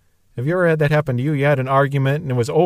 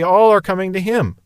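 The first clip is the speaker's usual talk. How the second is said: indignant; 5 semitones higher than usual. Retold or imitated. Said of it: "even worse".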